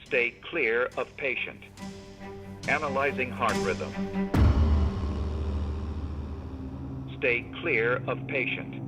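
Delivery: calm recorded machine prompt; even automated device instructions; defibrillator voice prompt. Acted. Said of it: "Voice instructions ... by the A E D".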